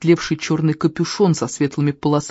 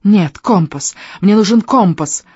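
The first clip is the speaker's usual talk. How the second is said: hound rattling off its demand, slightly raised; 4 semitones higher, 4 dB louder than usual. Acted. Hound insisting to Skandi on the compass, rattling. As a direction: blurt it out, pressing and insistent. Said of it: "тараторила гончая".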